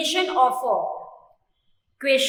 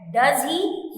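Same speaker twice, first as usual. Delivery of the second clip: "does he" going up at the end; rising intonation; 3 semitones higher than usual. Shown as a demonstration. Teacher thinks it a strange thing, rising intonation. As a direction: lift "does he" into an unsure question. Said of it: "Here, our intonation goes up".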